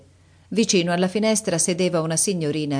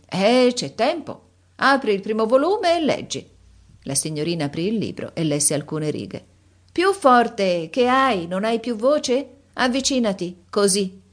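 put-on bossy old countess; 6 semitones higher than usual. Countess making Lisa read aloud, high and bossy. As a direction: order her about like a spoiled mistress.

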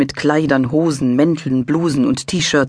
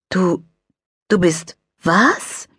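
put-on astonished child; 5 semitones higher, much slower than usual. A narrator's reading.

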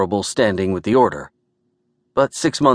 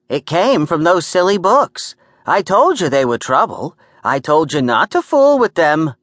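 high, louder New York nagging; scolding New York woman; 7 semitones higher, 4 dB louder than usual. Acted. Gert blaming Morty's silly books, scolding New York voice. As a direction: berate him in a pitched-up woman's voice.

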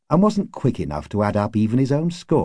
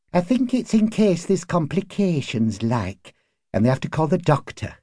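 higher-pitched woman's dialect voice; neighbour woman; 8 semitones higher than usual. A narrator's reading. Neighbour tells husband about possible complications, high character voice. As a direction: explain it as the woman from next door, pitched up.

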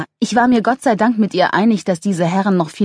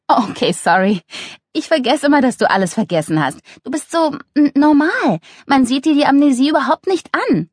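put-on higher-pitched girlfriend's apology; light, animated reassurance; Luna, breezily apologetic; 8 semitones higher than usual. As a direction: chatter an apology to a friend. Voices Luna.

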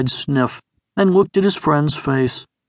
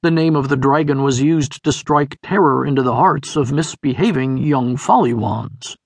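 ordinary delivery, nothing marked

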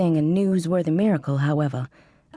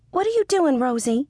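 accusing mother; 8 semitones higher than usual. A narrator's reading. Mother on the phone catching her daughter snacking, accusing. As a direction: needle her daughter with a high, pointed question. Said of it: "she asked accusingly".

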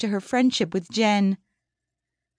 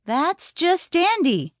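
slow, sour sarcasm; sarcastic frustration; 7 semitones higher, slower than usual. Acted. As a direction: drag it out, bitterly sarcastic. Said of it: "face grimaced in frustration".

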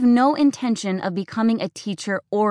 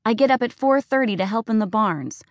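higher, shrill-edged accusing rant; furious, hurt daughter; 4 semitones higher than usual. Acted. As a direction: pour out every grievance. Daughter's tearful tirade.

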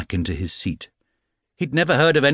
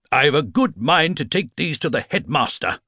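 crying out; 7 semitones higher than usual. Acted. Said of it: "he cried".

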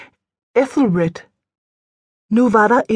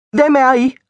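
sharp, higher-pitched interrogation; inquisitorial; 5 semitones higher, 4 dB louder than usual. A narrator's reading. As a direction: demand answers like an inquisitor. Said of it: "spurgte jeg inkvisitorisk".

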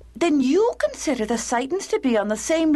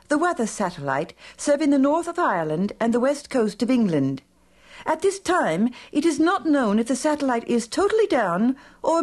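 measured newsreader voice; news read; 3 semitones lower than usual. Acted. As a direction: read it like a radio bulletin. Radio news bulletin read.

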